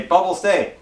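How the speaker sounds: mock frustration in a retold command; retold worked-up command. Owner to dog who keeps running forward, mildly worked-up command.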